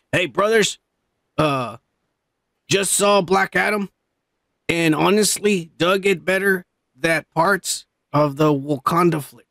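words pulled in on an in-breath, slow; talking while inhaling. Real, not acted. Host reading a fan's message while inhaling smoke. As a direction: speak while sucking in smoke. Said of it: "I was trying to speak while inhaling".

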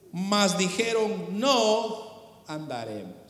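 slow, low and sinking away; grave Scripture reading. Acted. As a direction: draw out the refusal, dropping deep and soft.

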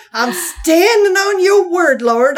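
high, slowed words broken by laughter; laughing quote. Retold or imitated. Narrator retelling her own laughing reply to the woman. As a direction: squeeze the line out through laughter. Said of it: "And I say".

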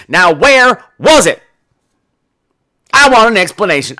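slow, loud, deliberate accusation; mock interrogation. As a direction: lay out the logic like a detective. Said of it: "I'd say".

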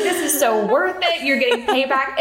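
high-pitched, laughing mock triumph; gloating grandmother. Woman imitates her mom relishing payback, high and gleeful. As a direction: crow it with laughter in the voice. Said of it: "She's like".

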